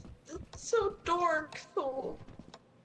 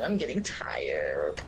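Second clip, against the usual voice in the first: whispering. Real, not acted. Tired at end of session.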